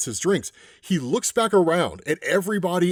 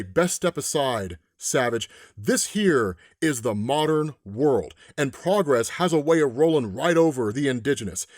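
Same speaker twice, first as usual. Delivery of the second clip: western soldiers. Retold or imitated. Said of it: "I'm gonna put on a Western voice here".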